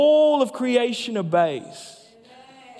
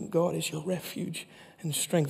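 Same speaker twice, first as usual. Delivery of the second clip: mumbled timidly under the breath; weak, hedging murmur; meek mumble; 2 semitones lower, 8 dB quieter than usual. Shown as a demonstration. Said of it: "He's not whispering under his breath".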